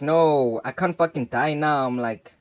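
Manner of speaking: retelling his panic at dying, a touch of fake crying; mock crying. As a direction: whimper out a pleading protest. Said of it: "I started crying".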